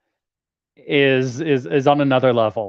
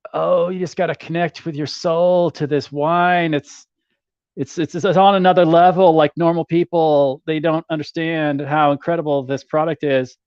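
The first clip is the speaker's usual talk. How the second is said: raised, gushing sales-pitch voice; gushing wine salesman; 4 semitones higher than usual. Retold or imitated. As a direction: sell it like a smug chateau owner. Mocking a chateau owner's sales pitch.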